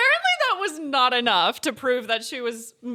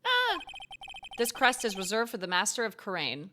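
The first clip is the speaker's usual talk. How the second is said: lightly voiced game narrator; 4 dB quieter than usual. Reads game dialogue aloud.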